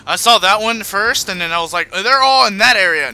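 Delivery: high, loud laughing explanation. Real, not acted. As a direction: laugh through the excuse. Laughing at own mistake.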